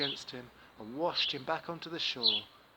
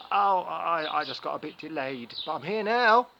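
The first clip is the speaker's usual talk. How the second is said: much louder, higher excuse; flustered Anansi; 3 semitones higher, 11 dB louder than usual. Acted. Anansi explains being late, loud and flustered. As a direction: bluster through the excuse.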